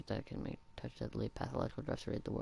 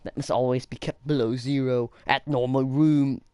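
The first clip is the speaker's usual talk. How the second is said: exaggerated, badly faked Austrian accent; Arnold Schwarzenegger; 13 dB louder than usual. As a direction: push the mock Austrian accent harder. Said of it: "I can't do Arnold Schwarzenegger".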